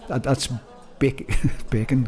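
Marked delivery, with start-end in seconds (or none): 1.7-2.1 "bacon" for baking, Northern Irish vowel; Northern Irish accent. Shown as a demonstration. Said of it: "as I said in my Northern Ireland accent".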